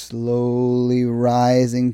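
suspenseful, drawn-out telling; slow, suspenseful. Retold or imitated. Describing a movie gauge creeping up, slow and suspenseful.

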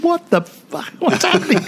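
high, shrill-pitched panic, lifted well up; panicked producer. Retold or imitated. Producer runs down from the booth in a high panicked voice. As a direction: shriek it like a producer who just watched his star quit.

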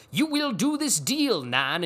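slow, swooping high Shakespearean command; Logan Roy. Retold or imitated. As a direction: declaim it loudly like a stage monarch. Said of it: "so Shakespearean that he's like".

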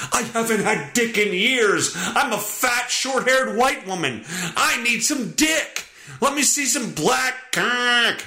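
high, mocking woman voice. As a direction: parody her in a high voice. Voicing the woman in parody.

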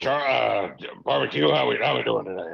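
lightly voiced smug boss greeting; a hint of a cocky tycoon; Vince McMahon impression. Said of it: "Vinnie Mac himself".

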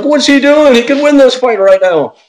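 incredulous commentator. Retold or imitated. Commentator baffled by the fighter not winning, high incredulous yell. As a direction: shout in disbelief at the screen. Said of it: "Boss Room's like".

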